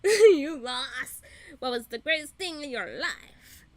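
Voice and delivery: mock diva send-off, rising to a near-yell; hammed-up sassy kiss-off to an ex. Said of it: "Very sassy with it".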